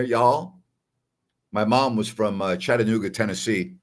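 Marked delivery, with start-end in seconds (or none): 0.0-0.6 y'all with a little Southern lilt; lightly put-on Southern y'all; Southern accent. Host joking to viewers about the accent, slight Southern accent. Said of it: "Little Southern accent down there".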